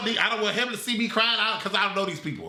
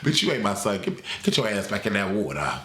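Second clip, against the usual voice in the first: much lower, cold mock-furious mother; Neytiri's voice; 10 semitones lower than usual. Neytiri telling Spider to go back in the water, low scornful voice. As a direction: growl it as the rejecting mother.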